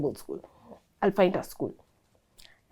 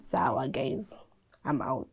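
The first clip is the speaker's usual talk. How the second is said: whispered exit; 8 semitones lower, 9 dB quieter than usual. Retold or imitated. Quitting, muttered aside.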